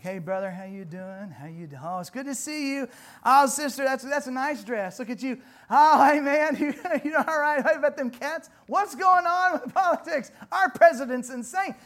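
a hint of hearty, fake-friendly small talk; loud, breezy mock greetings; fake church greetings. Preacher mimicking churchgoers greeting, hammed-up cheer. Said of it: "We're like".

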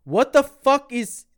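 high, loud, slow mock outrage; retold indignant outburst; outraged. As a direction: demand they take it back. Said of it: "I'm like".

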